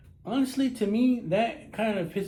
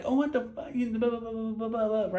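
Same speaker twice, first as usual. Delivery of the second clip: higher-pitched imitation of griping; mock pissed-off woman; 4 semitones higher than usual. Jealous woman complaining to her man, mock annoyed. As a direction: imitate her rant dissolving into babble.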